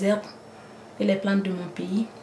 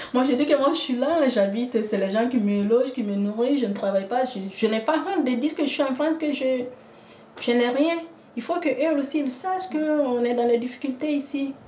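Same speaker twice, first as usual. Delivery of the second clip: impassioned retelling; 6 semitones higher than usual. Retold or imitated. Retells what she tells callers.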